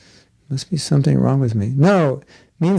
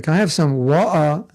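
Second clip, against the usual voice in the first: mock British accent. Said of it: "turn off your British accent".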